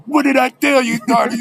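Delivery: high, loud preacher's whoop; exultant preaching. Retold or imitated. Officer hearing of the acquittal, exultant preaching. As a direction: cry it out like a jubilant preacher. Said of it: "He started preaching".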